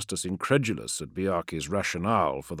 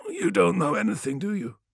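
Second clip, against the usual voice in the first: higher, scornful sorcerer taunt; mocking taunt; 12 semitones higher than usual. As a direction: taunt with bitter contempt. Menkora taunts after bitter laugh.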